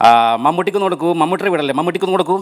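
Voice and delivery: a hint of Sreenivasan, pushy caller; lightly voiced actor asking for Mammootty; Sreenivasan impression. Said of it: "ശ്രീനിവാസൻ്റെ വോയിസിൽ". (ശ്രീനിവാസന്റെ ശബ്ദം അനുകരിച്ച് ഫോണിൽ)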